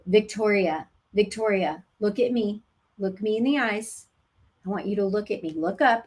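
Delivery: steady, grounded call for her eyes; firm and calm. Shown as a demonstration. Coach calling laboring mother back, firm and calm. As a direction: hold her attention, firm but kind. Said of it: "use a voice like this".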